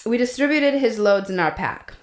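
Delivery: diary line in a hint of Russian accent. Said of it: "I'm trying to do it".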